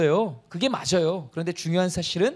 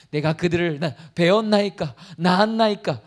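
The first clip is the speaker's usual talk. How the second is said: mocking Moses; 4 dB louder than usual. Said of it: "이 조롱하는 거 아니에요?".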